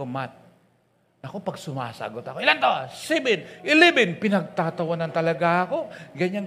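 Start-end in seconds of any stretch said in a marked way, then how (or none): 2.4-4.1 laughing. Retold or imitated. Retelling being laughed at.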